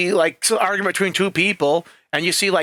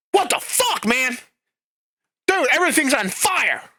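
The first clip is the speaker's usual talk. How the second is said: high-pitched, hammed-up alarm; exaggerated frantic outcry; mock panic; 8 semitones higher than usual. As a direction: freak out jokingly on the phone. Joking panicked call to Doc.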